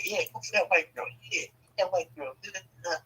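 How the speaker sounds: hushed, sneaky egging-on; mock whisper. Uncles whispering to the teen about the white girl, hushed. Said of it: "And whispering it".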